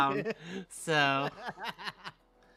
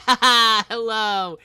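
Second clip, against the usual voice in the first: mock villain greeting; 5 semitones higher, 9 dB louder, slower than usual. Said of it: "we're like".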